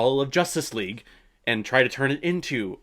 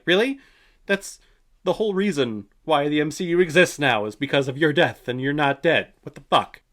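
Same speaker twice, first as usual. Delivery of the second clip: incredulous; 5 semitones higher, 5 dB louder than usual. Retold or imitated. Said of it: "everyone would just be like".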